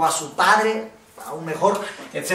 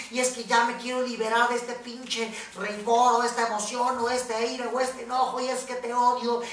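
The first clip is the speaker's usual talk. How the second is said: letter voiced aloud; 2 semitones higher, 5 dB quieter than usual. Shown as a demonstration. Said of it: "escribes todo eso que traes dentro".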